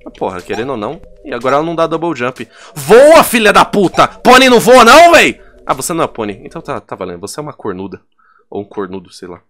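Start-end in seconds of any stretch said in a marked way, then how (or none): 2.7-5.4 loud, higher shout at the screen; frustrated yell. Real, not acted. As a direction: yell at the pony that won't fly. Yelling at character to fly.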